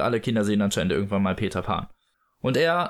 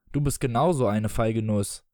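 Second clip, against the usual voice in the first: retorting father. Acted. Father answers his son's taunt, petty retort. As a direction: throw the taunt back in an adult voice.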